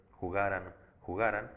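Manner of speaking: jugaran said twice with GA stressed; weight on GA, light ending in jugaran; stress on penultimate syllable. Shown as a demonstration. Teacher showing a palabra grave, stress on GA in jugaran. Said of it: "porque son palabras graves".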